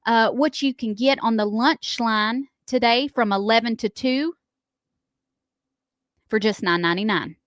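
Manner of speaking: measured list-reading of a lunch menu; radio ad read. Acted. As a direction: read it out like a local radio spot. Reads a restaurant's lunch ad.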